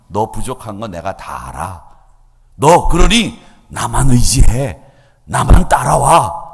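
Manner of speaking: slow, gentle reassurance building firmer; reassuring Lord. Retold or imitated. Preacher voices God comforting a struggling believer, slow and tender. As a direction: speak as a caring Lord drawing them close, slowly. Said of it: "이렇게 말씀하시는 분이 우리 하나님이란 말이죠".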